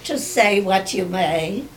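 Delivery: measured poetry reading with long pauses; poem recitation. Acted. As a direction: recite your own verse, pausing after each phrase. Reads own poem aloud.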